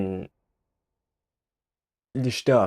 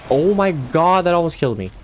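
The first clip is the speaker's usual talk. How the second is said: high panicked exclamations; startled near-death yelp; alarmed outcry; 6 semitones higher than usual. Real, not acted. Nearly killed in game.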